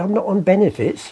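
said through a laugh; laughing punchline. Real, not acted.

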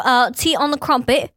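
put-on failed British accent drifting Australian; a botched British accent that slides into Australian; Australian-sounding British attempt. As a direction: try British, land in Australian. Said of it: "No, that's Australian".

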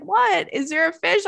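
high-pitched imitation of a curious friend; puzzled friend. Friend asked to look underwater, imitated as puzzled. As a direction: pitch it up, mock innocent questioning.

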